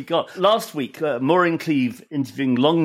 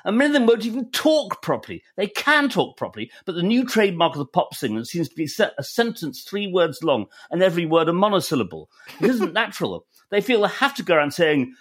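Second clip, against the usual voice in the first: higher-pitched, well-spoken posh English; withering complaint in a posh accent; fairly posh accent; 6 semitones higher than usual. Retold or imitated. Quoting a blues singer on pop singers, fairly posh accent. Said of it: "in a fairly posh accent".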